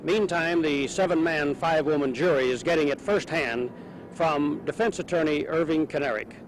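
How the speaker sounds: vintage broadcast news read. Real, not acted. Archival TV news report.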